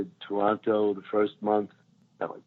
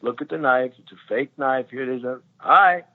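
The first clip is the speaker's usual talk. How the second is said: high, animated Eddie Murphy riff; imitating Eddie; 7 semitones higher than usual. Eddie Murphy ranting to the crew about the knife, high. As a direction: rant it comically, pitch way up. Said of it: "he was like".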